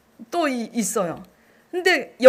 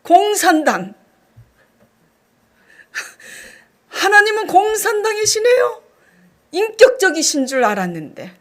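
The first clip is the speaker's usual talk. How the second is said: higher, laughing half-sob complaint; mock indignant protest; 7 semitones higher, 5 dB louder than usual. Talking back to God again, laughing mock-indignant complaint. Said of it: "제가 또 하나님께 대들었어요".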